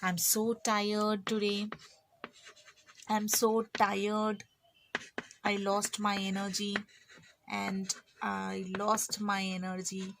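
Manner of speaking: slow, drooping, exhausted sigh of a voice; tired. Pretend. Teacher acting out a worn-out student, slow and exhausted. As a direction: drag each word out like you have no energy left. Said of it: "We can say that".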